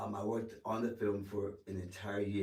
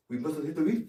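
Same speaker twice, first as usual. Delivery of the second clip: higher, louder Bahamian lilt rising at the end; Bahamian accent; 7 semitones higher, 6 dB louder, faster than usual. Retold or imitated. Ship's aide shows actor how to say the line, in Bahamian accent. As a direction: imitate a Bahamian speaker, pitched up. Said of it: "he was a native Bahamian".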